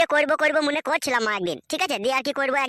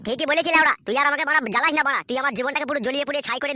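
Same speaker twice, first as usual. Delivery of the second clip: angry retort. Acted. Husband shouting back at wife.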